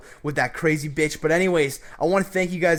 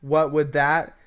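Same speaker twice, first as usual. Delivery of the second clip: playing dumb; slower than usual. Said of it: "playing the stupid fucking idiot oblivious guy".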